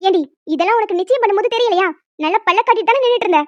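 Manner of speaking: loud, fast mocking rebuke; sarcastic scolding. Mother mocking daughter.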